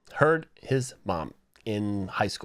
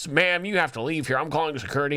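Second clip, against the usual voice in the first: stern teacher; 5 semitones higher than usual. Retold or imitated. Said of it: "the teacher's like".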